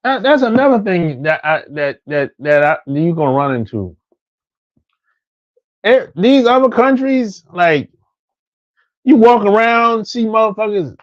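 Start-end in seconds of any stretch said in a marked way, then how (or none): none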